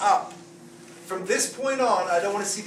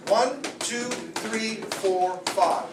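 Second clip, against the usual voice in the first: counting blows; much slower than usual. Shown as a demonstration. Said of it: "Five back blows".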